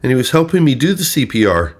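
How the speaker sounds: high, loud boastful mimicry; mock bragging. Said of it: "she later brags".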